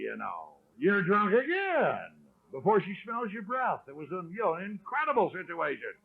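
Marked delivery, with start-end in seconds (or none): 0.8-2.0 mock wifely yell, stretched out slowly; retold yell. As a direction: imitate a wife yelling, only half-raised. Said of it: "she's yelling at me".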